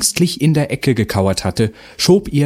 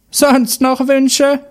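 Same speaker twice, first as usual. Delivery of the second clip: high, loud, slow mocking witch voice; grumbling witch; 5 dB louder, much slower than usual. A narrator's reading. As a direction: sneer it out like a hag. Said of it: "moserte die Hexe".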